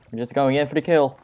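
fast, pumped-up battle call; psyched charge. Acted. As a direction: rush into it, hyped. Charging a mob.

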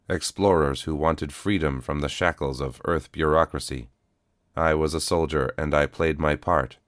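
even, steady robotic calm; a worn cyborg, calm and level; flat cyborg voice. Acted. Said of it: "came a flat voice".

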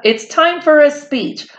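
a touch of a piping cicada; mild screech. Acted. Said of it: "he said with a screech".

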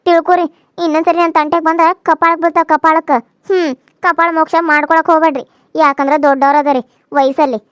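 angry threat. Acted. Daughter-in-law threatening her elders with a loud angry voice. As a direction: warn them off with a slap threat.

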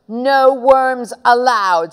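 slow, emphatic ban; cross order. Acted. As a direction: lay it down word by word, crossly. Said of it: "slamming the door".

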